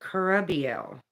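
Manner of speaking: Carabiel with the second syllable stressed. Shown as a demonstration. Trying the angel's name, Carabiel stressed on the second syllable. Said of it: "pronounced with the emphasis on the second syllable".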